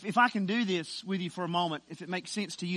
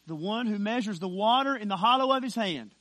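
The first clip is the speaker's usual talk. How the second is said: preaching swell; 5 dB louder than usual. Acted. Preaching swell before hushed "wept.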